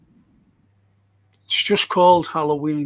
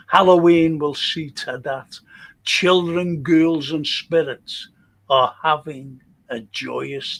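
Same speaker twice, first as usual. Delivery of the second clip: slow, measured, ominous poem reading; spooky poem recital; slower than usual. Acted. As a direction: draw out the eerie lines, dropping away at phrase ends. Reads second Halloween poem.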